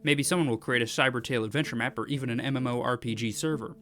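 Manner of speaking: lively read-aloud of an announcement, pitch lifted. Acted. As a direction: read it out like an upbeat developer update. Reads the developers' post aloud.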